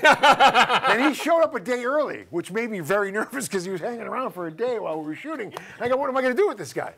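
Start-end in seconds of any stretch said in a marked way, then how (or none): 5.9-6.9 high, worked-up pleading; mock-panicked instructions, pitched up; retold exasperation. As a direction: act out being at a loss. Retells his own dismay on set.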